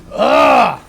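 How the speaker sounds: loud, fed-up ugh; frustrated groan. Real, not acted. Frustrated at party strategy.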